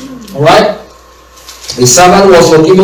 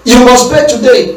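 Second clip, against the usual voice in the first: demanding; 5 semitones higher than usual. Retold or imitated.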